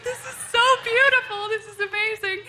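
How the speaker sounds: high, loud awestruck cry; overwhelmed with delight at the dolphin; overjoyed. Retold or imitated. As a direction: burst out in joy. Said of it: "I'm like".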